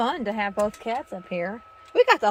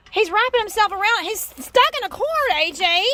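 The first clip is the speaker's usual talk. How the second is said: high and loud, alarmed; alarmed excited; 8 semitones higher, 7 dB louder than usual. Real, not acted. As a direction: react fast to the tangled cat. Cat tangled in cord.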